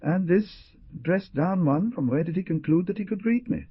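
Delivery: loudly mock the shabby man for all to hear; very loud remark. A narrator's reading. Doctor to his friends, loudly scornful. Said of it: "He commented to the others very loudly".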